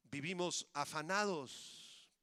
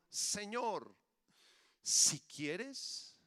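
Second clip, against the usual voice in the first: leper's plea; much slower than usual. Acted. Leper's cry voiced by pastor.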